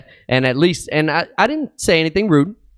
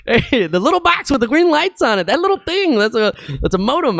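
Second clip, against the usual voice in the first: mock explaining; 9 semitones higher than usual. Explaining box to techs, mock.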